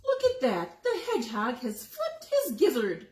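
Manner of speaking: mock him like a noisy gander.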